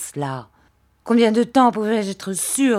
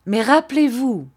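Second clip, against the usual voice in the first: a louder, harsher warning; slow hard voice; 6 semitones higher, 6 dB louder than usual. Acted. Rosa gives Emily a final hard warning, mildly harsh. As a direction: bite down on each word. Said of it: "d'une voix lente et dure".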